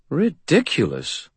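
high, slow, disdainful fey lady; fairy godmother voice. A narrator's reading. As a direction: look down your nose at him. Narrator voices fairy godmother Leah.

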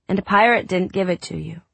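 put-on high small boy voice; a sick little boy; young boy voice. Child Drew voiced high.

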